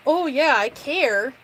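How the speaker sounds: drawn-out mocking "Oh yeah, I care"; sneering slow quote; sarcastic mimic. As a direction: mimic their fake caring, slowly. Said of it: "being told by people that".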